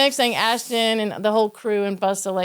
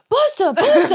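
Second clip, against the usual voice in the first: calling after him; 10 semitones higher, 5 dB louder than usual. Retold or imitated. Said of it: "everybody that's on the cast was like".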